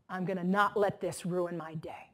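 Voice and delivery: a voiceless whisper to oneself; whispered self-talk. Retold or imitated. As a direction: quietly coach yourself under your breath. Calm self-talk about the eye-roller.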